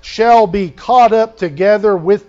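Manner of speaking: scripture reading. Real, not acted. Pastor reads of being caught up, forceful scripture reading. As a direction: proclaim the promise out to the congregation.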